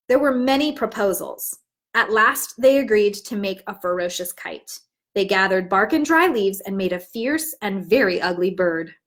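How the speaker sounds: put-on warm, even picture-book narration for young listeners; storybook read-aloud. Teacher reads the story aloud to her class, storytelling voice.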